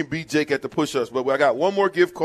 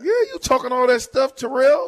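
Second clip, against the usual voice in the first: yelling across the room; 8 semitones higher than usual. Real, not acted. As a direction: shout it across the room at him. Calling out absent gamer.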